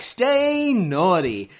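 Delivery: very slow, stretched "Stay naughty"; co-host drawing out the sign-off; drawn-out take. Shown as a demonstration. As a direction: drag "Stay naughty" out long. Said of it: "And you may be like".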